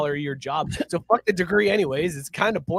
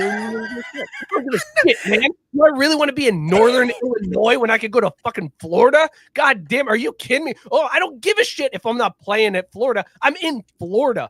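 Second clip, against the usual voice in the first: loud, high rant as the departing player; a player shouting about choosing Florida; excited player rant; 6 semitones higher, 5 dB louder than usual. Retold or imitated. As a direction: brag loudly like the kid who left for Florida. Voicing the transferring player.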